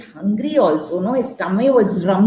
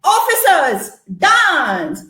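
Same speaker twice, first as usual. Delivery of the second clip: farmer's command; 3 semitones higher, slower than usual. Acted. Farmer commanding officers to dance, commanding call. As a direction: order them to dance. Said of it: "The farmer said".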